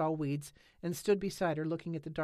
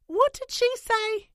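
much higher, louder, slow call; calling over; 12 dB louder, slower than usual. A narrator's reading. Holly asks Nance from the steps, loud. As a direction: call across as you come down.

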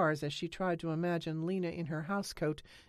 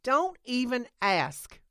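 louder, higher, slow weary call; calling back; 8 semitones higher, 8 dB louder, slower than usual. A narrator's reading. Nance calls back to Holly on the porch, loud and weary. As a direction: call it back over your shoulder. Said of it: "she called back".

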